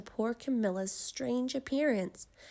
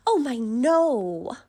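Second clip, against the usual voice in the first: put-on kind old woman; 3 semitones higher, 9 dB louder, slower than usual. A narrator's reading. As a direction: chuckle it off like a sweet old lady. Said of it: "replied the kind old woman".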